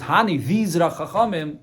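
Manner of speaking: "Hani" tossed off high and loud, slowing on these Rachachamim; dismissive Hani. Shown as a demonstration. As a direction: say "Hani" like you're pointing at nobodies. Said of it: "that's not honorable".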